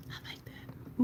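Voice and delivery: soft, voiceless whisper; whispered approval. Real, not acted. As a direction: whisper it to yourself. Murmuring approval of own makeup.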